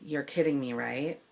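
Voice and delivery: quiet, level and very calm disbelief; calmly asking if she is joking. Retold or imitated. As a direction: keep it soft and calm, no edge. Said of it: "And I said very calmly".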